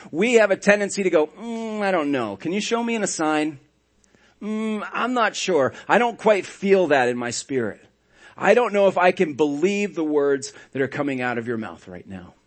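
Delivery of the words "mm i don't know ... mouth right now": mock doubt. Doubting believers voiced.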